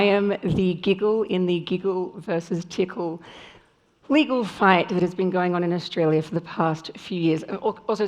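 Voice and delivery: lost voice, hoarse and strained. Real, not acted. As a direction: speak through a hoarse, worn-out voice. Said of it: "sorry about my voice. I've lost my voice".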